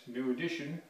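talking through a throat mic. Real, not acted. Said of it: "tactical throat mic".

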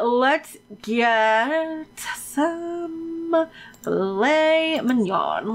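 very slow, stretched syllables; playful slow-motion announcement; drawn-out ordering. Real, not acted. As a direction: drag every word right out. Dragging out the menu choice.

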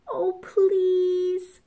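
high, whiny sniffly plea; sniffing plea. A narrator's reading. Sick wolf begs the pig, high and sniffly. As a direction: beg with a runny nose. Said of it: "sniffed Big Bad".

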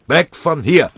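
laut und viel höher; schreiend. Acted. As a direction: schrei in Panik. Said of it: "schrie Tinnes". (panischer Schrei, laut und hoch)

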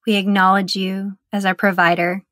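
measured, even prayer in short phrases; meditative prayer. Acted. Guide praying the Lord's Prayer for meditators, meditative prayer. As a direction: pray it reverently, pausing long between sections.

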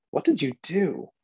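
high, swooping voice of a questioning father; father's startled question. Acted. Father asking the poet about lost teeth, high-pitched question. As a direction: pitch it up as a parent's pointed question.

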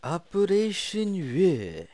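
slow, high mock Asian accent, drawn out; a jokey Asian accent on a mission name; put-on Asian accent. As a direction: intone it in a hammed-up Asian accent. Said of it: "I'm saying that like an Asian".

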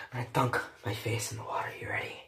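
hushed whisper to viewers. Real, not acted. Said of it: "whispering before the dunk".

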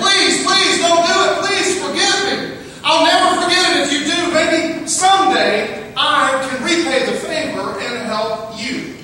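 high, loud, desperate pleading; begging mouse. Acted. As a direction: beg for your life like a tiny caught mouse. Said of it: "the mouse started screaming and begging".

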